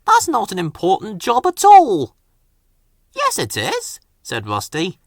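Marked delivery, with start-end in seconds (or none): 0.0-2.2 moaning. Acted. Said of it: "he moaned to Rusty". 3.1-4.0 bright insistence. Acted. Rusty contradicts Rheneas.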